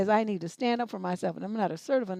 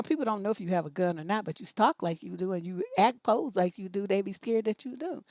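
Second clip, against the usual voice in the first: normal talking voice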